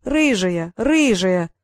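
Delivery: drawn-out teasing chant; singsong taunt. Acted. Brother chants a name at sister, drawn-out tease. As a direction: stretch it out like a playground tease. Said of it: "затянул Норт".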